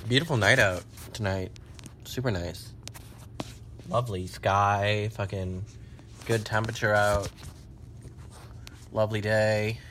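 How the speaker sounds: hushed evening reflection; soft musing. Real, not acted. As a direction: murmur about the lovely night. Quiet musing about the night.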